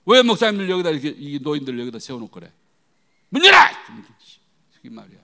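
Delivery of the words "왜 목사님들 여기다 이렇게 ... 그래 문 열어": loud scolding, ending in a shouted order; acted-out indignant yelling; retold angry shouting. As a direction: tell off the staff at full voice. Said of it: "막 소리를 질렀더니".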